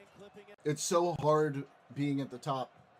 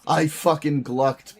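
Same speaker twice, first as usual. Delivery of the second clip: laughing; 3 semitones higher, 12 dB louder, much slower than usual. Real, not acted. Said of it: "I glucked".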